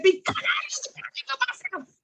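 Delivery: high, ashamed whisper; a child's mortified whisper. Retold or imitated. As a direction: breathe it out, too embarrassed to say it aloud. Confessing accident to teacher.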